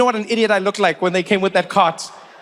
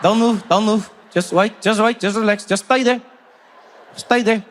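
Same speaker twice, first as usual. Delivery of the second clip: seatmate; 2 semitones higher than usual. Retold or imitated. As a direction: keep him still for the photo. Seatmate holding the pose.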